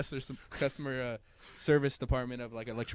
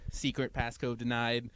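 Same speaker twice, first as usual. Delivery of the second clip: robot voice; slower than usual. Retold or imitated. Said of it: "I was like".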